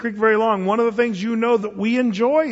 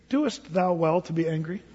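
laughing mock question; 2 semitones lower, 5 dB quieter than usual. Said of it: "who can be first to say".

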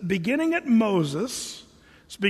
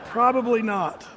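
laughing. Real, not acted. Joke about coloring in Sunday school.

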